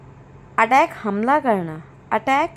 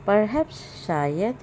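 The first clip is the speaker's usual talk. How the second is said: slow model word; 3 semitones lower, 4 dB quieter, much slower than usual. Shown as a demonstration.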